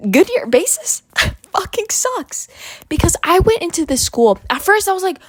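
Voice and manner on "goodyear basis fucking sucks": laughing whisper. Real, not acted. Ranting about old school.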